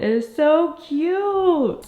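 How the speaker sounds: excited squeal. Real, not acted. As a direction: gush with delight. Gushing over finished decor.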